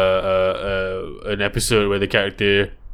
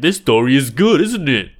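put-on kids' show narrator voice; 3 semitones higher, 3 dB louder than usual. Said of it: "I'm just gonna write".

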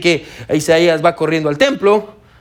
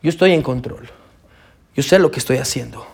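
calm God voice; 5 semitones lower than usual. Acted. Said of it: "que nos dice".

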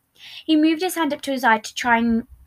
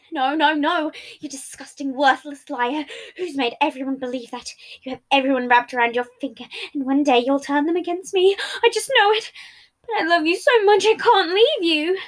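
higher, venomous then pleading; bitter rant; 4 semitones higher, 4 dB louder than usual. Acted. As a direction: spit insults, end clinging. Patton ranting, manipulative.

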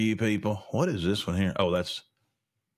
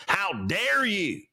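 mock angry Biden; 6 semitones higher, slower than usual. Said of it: "Biden angrily denouncing her".

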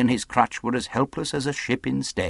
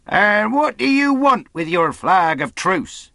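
high, shouted demand; loud cry; 13 semitones higher, 8 dB louder, slower than usual. A narrator's reading. Captain challenges the mutineers over the truce, loud cry. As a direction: call the question out to the enemy. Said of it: "he cried".

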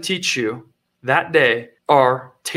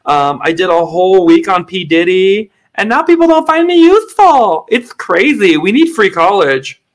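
a hint of an entitled whiny grad; lightly mock a spoiled student; whiny graduate; 3 dB louder than usual.

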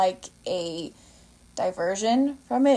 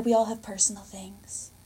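condescending; 3 dB quieter than usual. Retold or imitated. Retelling a mother scolding the teacher, condescending. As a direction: gently talk down to the listener. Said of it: "so condescending".

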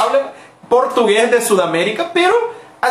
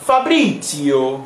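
mock Italian; 5 semitones lower, much slower than usual. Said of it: "para hablar italiano solo tenés que hacer así".

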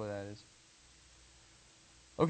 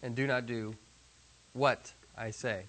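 slow word by word; slower than usual. Shown as a demonstration. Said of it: "Relative clause there".

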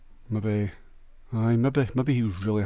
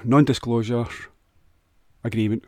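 careful pronunciation; 4 dB louder than usual. Real, not acted. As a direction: sound out "non-disclosure agreement" deliberately, in pieces. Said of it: "Can't say it".

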